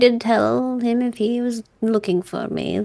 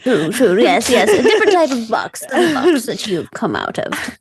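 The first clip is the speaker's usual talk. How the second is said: laughing; 4 dB louder than usual. Real, not acted. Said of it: "You're going to confuse him".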